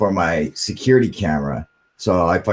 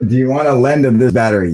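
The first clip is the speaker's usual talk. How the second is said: mock Irish accent; 6 dB louder than usual. Mocks her mumbled Irish question back.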